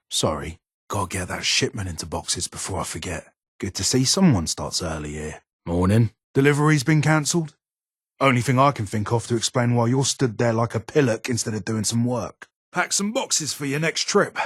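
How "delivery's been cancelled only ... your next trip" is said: much higher, loud mocking rebuke; sarcastic scolding. Real, not acted. Gunsmith mocking the idle courier, high and sarcastic. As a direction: needle a lazy worker with sarcasm.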